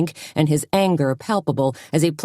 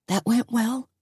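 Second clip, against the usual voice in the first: dry, higher sarcastic question; mock cheerfulness after a blowup; 8 semitones higher, 3 dB quieter than usual. A narrator's reading. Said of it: "don't start with the sarcasm".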